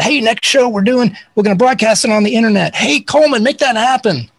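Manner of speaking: high, breezy call from the stage; imitated singer, pitched well up. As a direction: announce it, then toss out an order. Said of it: "He said".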